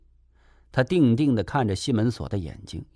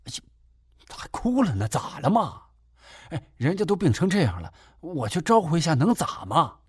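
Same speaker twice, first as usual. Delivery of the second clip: coaxing; 6 semitones higher than usual. Acted. Man coaxing crying lover.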